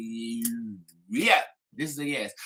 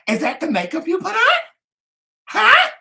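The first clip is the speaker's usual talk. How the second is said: high, loud mock outrage; hammed-up shocked Huh; 10 dB louder than usual. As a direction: squeal it out in fake disbelief. Mocking shocked reaction.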